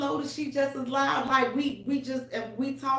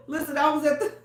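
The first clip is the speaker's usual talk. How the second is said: laughing through words; 7 semitones higher, faster than usual. Real, not acted. Laughing telling hospital story.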